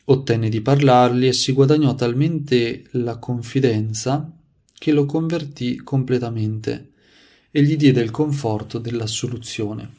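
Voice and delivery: measured, projected read-aloud of a saint's life; story narration. A narrator's reading. Preacher reading saints' anecdotes to listeners, devotional narration. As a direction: read it out clearly, phrase by phrase.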